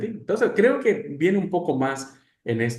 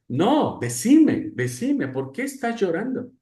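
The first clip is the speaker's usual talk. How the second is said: ruego agudo de madre imitada; madre insistente; 7 semitones higher than usual. Retold or imitated. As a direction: exige saber, como una mamá preocupada. Madre insiste otra vez. (mamá insistente, voz aguda)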